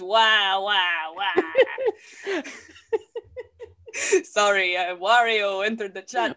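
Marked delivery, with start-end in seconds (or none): 0.0-1.4 loud hammed-up wah-wah crying; mock baby cry. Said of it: "and it says". 1.5-3.6 high cackle. Acted. Cackle he calls Wario.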